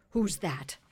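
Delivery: mildly alarmed king; startled king. A narrator's reading. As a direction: demand it loudly, suddenly wide awake. Startled king wide awake.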